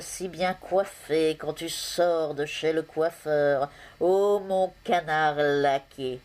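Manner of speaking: slow, declaimed love poem with long-held vowels; mock-lofty ode, stretched out slowly; poem recital. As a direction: recite grandly to a beloved, pausing between phrases. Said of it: "vous dire un poème".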